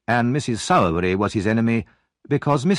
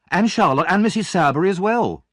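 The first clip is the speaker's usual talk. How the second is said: fake distressed boy; 9 semitones higher than usual. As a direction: play the victim, tearful and frantic. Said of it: "Noah cried".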